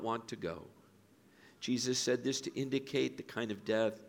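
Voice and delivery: measured reading with long solemn pauses; scripture reading. A narrator's reading. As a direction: read the Gospel aloud, letting each quote breathe. Reads scripture aloud.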